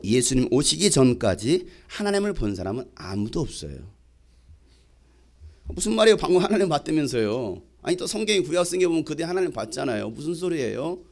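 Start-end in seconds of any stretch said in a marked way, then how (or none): 5.7-11.0 puzzled objector. Retold or imitated. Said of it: "이렇게 질문하신 분도 계실지도".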